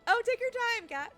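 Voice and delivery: high, loud coo to the cat, slow at the end. Real, not acted. Talking to her cat.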